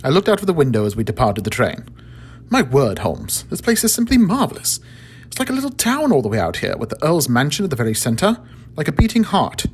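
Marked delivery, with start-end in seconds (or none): 2.5-9.7 an excited Dr Watson, pitched up; a marvelling English doctor, raised high; Watson voiced. Watson's voiced lines in story.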